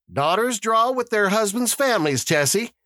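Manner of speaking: high character voice, gently explaining; mild, gentle reminder; gentle correction. A narrator's reading. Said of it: "Mister Summers said gently".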